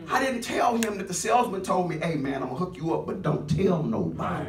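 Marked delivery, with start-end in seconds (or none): 2.0-4.5 low, soft and fast, a hushed aside; secret promise. Retold or imitated. Salesman to the preacher, hushed and conspiratorial. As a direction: let him in on a secret quickly.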